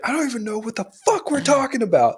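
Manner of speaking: high-pitched baffled outburst, imitating a character; mock exasperation. Retelling a character lost in the helmet search, exasperated. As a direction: blurt it out high, acting utterly lost.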